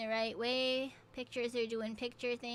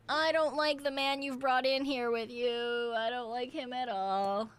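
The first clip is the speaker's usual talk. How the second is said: alarmed protest; 5 dB louder than usual. Real, not acted. Player upset at the man brought in, alarmed loud wail.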